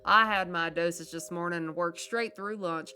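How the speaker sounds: letter read in character. Acted. Gamer reading a cousin's letter to viewers, chirpy and perky. Reads another letter aloud.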